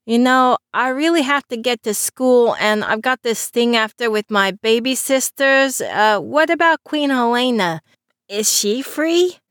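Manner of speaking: put-on a young man making excuses; lightly voiced teen Christopher.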